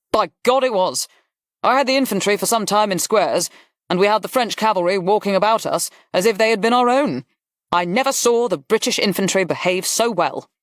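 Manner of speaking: high, vigorous Duke in full flow; animated Duke. Acted. Duke praising his infantry to Worth, animated. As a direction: agree heartily, then recount with relish. Duke goes on describing the battle.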